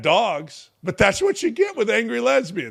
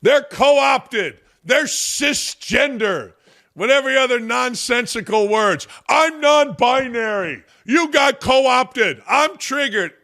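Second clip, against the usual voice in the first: mock triggered liberal; 5 semitones higher, slower than usual. Mocking whiny liberals.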